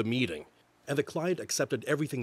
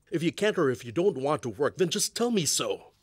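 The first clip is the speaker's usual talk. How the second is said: raised voice, frustrated demand; exasperated anger; 2 semitones higher, 4 dB louder than usual. Acted. Husband tells wife to be honest about work, exasperated. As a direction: let the frustration push the voice up.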